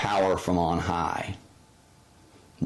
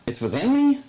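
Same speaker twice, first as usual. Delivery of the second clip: high, louder disbelieving question; mock astonishment; 4 dB louder, faster than usual. Listener doubting Jesus's words, high loud astonishment. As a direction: squeak it out in disbelief.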